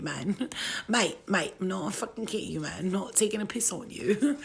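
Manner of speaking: joking along in mock British; put-on British accent. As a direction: play a chatty Brit, British accent. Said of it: "my British English accent".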